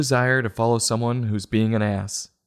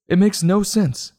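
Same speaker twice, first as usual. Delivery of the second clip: exasperated; 7 semitones higher than usual. Real, not acted. Ranting at a baffling book.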